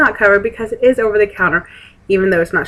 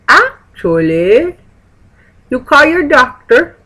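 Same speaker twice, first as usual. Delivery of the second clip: slow, loud mock Russian accent, pitched up; 6 semitones higher, 6 dB louder, slower than usual. Pharmacist instructing the patient, imitated Russian accent. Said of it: "her Russian accent".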